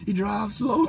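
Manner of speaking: high, slow whiny complaint; complaining passenger. Retold or imitated. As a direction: whine it slowly at the driver. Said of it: "she was like".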